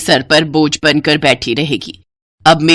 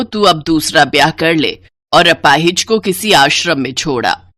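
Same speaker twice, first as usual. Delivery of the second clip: lower, curt commanding voice; bossy mother-in-law; 3 semitones lower than usual. Acted. Mother-in-law orders the elder bride to make tea, lower and curt. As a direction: order her around like a servant.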